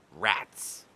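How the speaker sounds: a grumbling foiled gull; frustrated gull. Acted. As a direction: mutter it, defeated.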